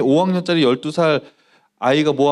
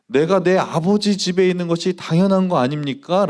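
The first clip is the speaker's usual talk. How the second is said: put-on calm young Jesus; 4 semitones higher than usual. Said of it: "라고 이렇게 얘기를 했습니다".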